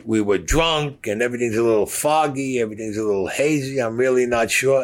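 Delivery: put-on nervous kid caught lying; nervous stammering. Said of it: "he starts stuttering".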